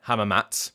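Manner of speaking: hamamatsu cut to "hamamats"; dropped final oo. Shown as a demonstration. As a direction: end "hamamatsu" on a bare ts, no vowel. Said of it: "don't pronounce the oo at the end".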